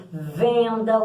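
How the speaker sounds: "venda" with the E held and nasalised; vogal nasal. Shown as a demonstration. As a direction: let the E of "venda" ring through the nose. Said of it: "o E tá anasalado". ("venda" com o E anasalado)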